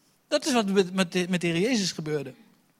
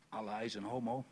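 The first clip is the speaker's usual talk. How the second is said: quiet retold insult; 5 semitones lower, 14 dB quieter than usual. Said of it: "Sorry, grapje, fout grapje".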